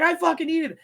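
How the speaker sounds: high, loud desperate demand; imitating cracked-out cook. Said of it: "He's like".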